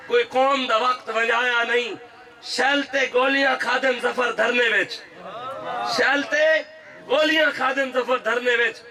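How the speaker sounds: full-voiced rally preaching; kraftvolle Predigt. Real, not acted. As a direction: preach it out to a big crowd. Preaches to a crowd.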